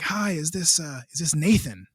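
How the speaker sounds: lightly raspy phone voice; a hint of a rasp. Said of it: "raspy voice on the other side of the line".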